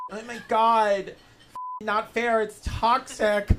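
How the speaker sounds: a hint of a whiny complaining teen, drawn out slowly; mock the whining kids, lightly; whiny youth. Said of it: "our youth complaining about bullshit".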